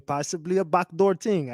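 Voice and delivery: lightly imitated Jamaican accent, "ting"; mock Jamaican accent. Streamer parroting the clip's backdoor line, mock Jamaican. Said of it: "developed this damn Jamaican accent".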